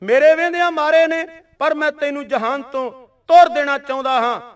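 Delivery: the general spits his challenge; mild mock fury of an enemy general; retold angry challenge. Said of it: "Jamal ਖਾਂ ਜਰਨੈਲ ਗੁੱਸੇ ਵਿੱਚ ਆ ਗਿਆ".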